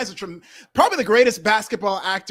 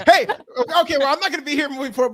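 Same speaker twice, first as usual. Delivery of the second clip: mock outrage; 6 semitones higher, 6 dB louder, faster than usual. Mock protest to cohosts.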